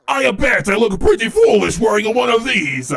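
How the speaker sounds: high, exclaimed mock-Italian accent. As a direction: put on a playful Italian accent. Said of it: "Nice Italian accent there".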